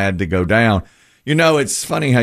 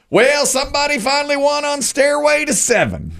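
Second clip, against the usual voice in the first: excited announcement. Retold or imitated. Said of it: "he goes".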